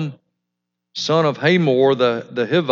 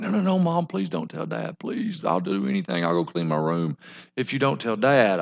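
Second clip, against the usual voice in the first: put-on pleading child; 5 dB quieter than usual. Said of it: "and the kids start like".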